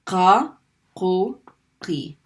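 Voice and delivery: heavy Arabic q; heavy qaf sound. Shown as a demonstration. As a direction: stop the air far back in the throat. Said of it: "focus just on the heavy one".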